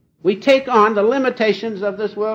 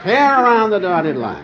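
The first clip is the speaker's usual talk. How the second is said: laughing repeat; 4 dB louder than usual. Real, not acted. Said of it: "So there you have it".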